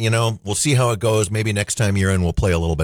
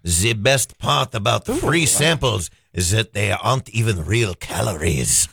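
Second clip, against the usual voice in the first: put-on French accent; 3 semitones lower, slower than usual. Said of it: "I got French".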